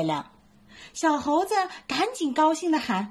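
lively bedtime story reading; storytelling for kids. A narrator's reading. Mom reading a bedtime story to little ones, lively.

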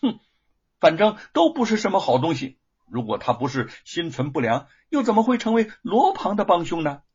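high, loud indignant woman; angry, gritted teeth. A narrator's reading. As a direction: spit it out through gritted teeth. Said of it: "玉凤咬着牙说".

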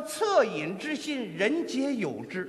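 mock-solemn teacher. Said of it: "他说".

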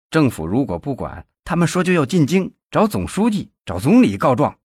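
losing his cool as he reports; flustered. Acted. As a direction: nephew panicking about the protest, flustered and fast. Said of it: "没了往日的老练和冷静".

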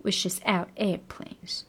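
slow, soft wishes out airplanes linked; slow linked read. Shown as a demonstration. Teacher models the linked phrase. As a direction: glide it together slowly. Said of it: "按照他这个连读来处理".

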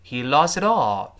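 slow, loud model reading with "lost it all" linked; teacher modelling the linking in "lost it all"; linked pronunciation. Shown as a demonstration. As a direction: run "lost it all" together as one phrase. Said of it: "注意这个连读".

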